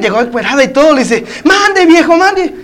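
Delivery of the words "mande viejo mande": high-pitched wifely reply; answering a call. Acted. Wife runs up to answer her husband, high eager reply.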